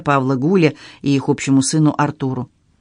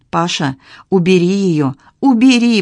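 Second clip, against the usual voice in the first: «убери» второй раз выше и громче; отчаянное «убери!»; стон-вопль; 4 semitones higher, 4 dB louder than usual. A narrator's reading. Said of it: "простонала Тугина". (стонущий крик «убери!»)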